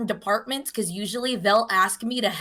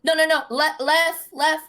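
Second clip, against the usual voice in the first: higher, urgent calling out directions; frantic correction; 7 semitones higher than usual. Retold or imitated. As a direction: correct the turn in a hurry. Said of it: "And he'd be like".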